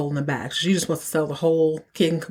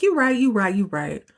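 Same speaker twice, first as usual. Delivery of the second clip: eager agreeing; 3 semitones higher than usual. Retold or imitated. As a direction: give in gladly, playing it up. She agrees with Scooter.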